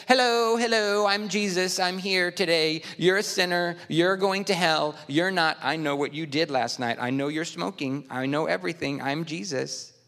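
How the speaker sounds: lightly hammed-up parody of a dubbed Jesus; mock dubbed Jesus. Preacher mimicking a joke video for the congregation, mock Jesus. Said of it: "They made little make-believe things come out".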